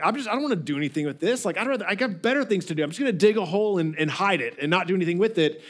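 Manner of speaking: fast, offhand brush-off; lazy dismissal. Acted. Servant shrugging off the job he was given, lazily dismissive. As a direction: rattle it off like you can't be bothered. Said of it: "his laziness was like".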